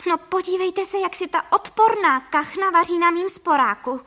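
high, loud indignant shout; outraged cry. A narrator's reading. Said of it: "vykřikla paní Frejková".

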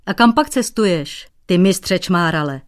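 teasing. Acted. Cobbler mocks the painter.

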